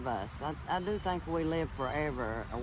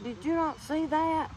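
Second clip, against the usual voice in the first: much higher, teary mock question; imitating a crying friend; 12 semitones higher, 4 dB louder than usual. Friend in tears asks the teller if she saw, pitched up high. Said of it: "my friend starts crying".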